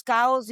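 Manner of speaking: "chaos" said KAH-os, like "cows"; "chaos" pronounced almost as "cows"; animal-sounding chaos. Shown as a demonstration. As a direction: say "chaos" with an open "ah". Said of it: "the animal".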